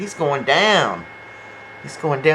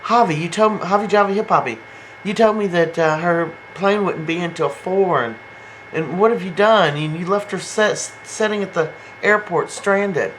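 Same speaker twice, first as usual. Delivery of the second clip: scolding mother; 5 semitones higher than usual. Retold or imitated. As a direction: nag him like a fed-up mother. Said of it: "And she's like".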